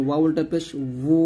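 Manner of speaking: ওয়া উল্টা পেশ উ with উ from both rounded lips; lip-rounded waw demo. Shown as a demonstration. Teacher shows students rounded-lip উ sound. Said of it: "ওয়াওটা দুই ঠোঁট গোল করে নিয়ে আসবেন".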